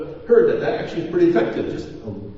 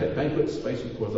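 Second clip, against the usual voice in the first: a quick, softer repeat of banquet spiced with quarrels with a chuckle; amused repeat; 3 semitones lower, 4 dB quieter than usual. Retold or imitated. Pastor relishing a Bible phrase for his congregation, amused chuckle. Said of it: "I kinda like that".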